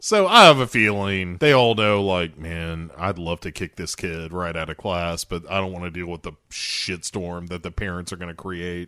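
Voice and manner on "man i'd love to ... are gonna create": low, soft mock grumble; grumbled private thought. Teachers wanting to kick kid out, low grumble. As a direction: say it quietly as if to oneself.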